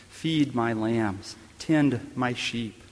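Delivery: slow, tender Jesus voice, lightly voiced; tender restoring words. Preacher voicing Jesus to Peter on the seashore, slow and tender. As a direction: draw it out gently, like a shepherd's charge.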